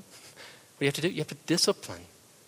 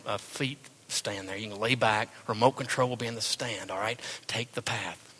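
a lightly voiced, laid-back angel with a sly sales pitch; terrible angel voice. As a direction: play the angel as a smooth, lazy tempter, barely off your own voice. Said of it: "That's a terrible angel voice".

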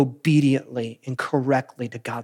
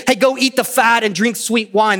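cheerful urging; 5 semitones higher, 4 dB louder than usual. Retold or imitated. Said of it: "he's saying".

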